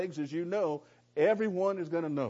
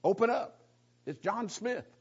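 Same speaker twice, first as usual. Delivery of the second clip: mock yell; 6 semitones higher than usual. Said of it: "someone yell, yells out".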